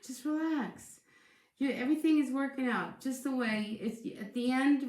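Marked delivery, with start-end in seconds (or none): 0.0-3.8 soothing. Real, not acted. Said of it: "I just wanted to say".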